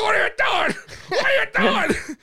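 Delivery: high, garbled wail through a propped-open mouth; hammed-up protest with half the face numb; numb, blocked mouth. Patient protesting to dentist with numbed face, garbled panic. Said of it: "So I'm talking like this".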